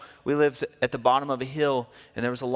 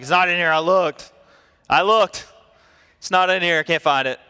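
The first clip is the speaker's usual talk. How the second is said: louder, higher insisting; impatient husband; 5 semitones higher, 6 dB louder than usual. Retold or imitated. Husband to wife about her purse, loud and insistent. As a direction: protest that you looked.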